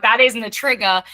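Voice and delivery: a father scolding his bratty daughter, half-hammed anger; imitating a livid dad. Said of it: "he was livid".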